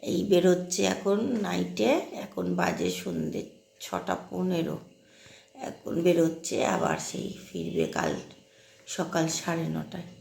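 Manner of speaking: real hoarse voice that drops out to a rasp in places; hoarse from a cold. Real, not acted. Mother vlogging with a sore throat, hoarse voice. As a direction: talk through a sore, cold-worn throat. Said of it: "গলাটা এমন বসে গেছে, বিচ্ছিরি একটা sound".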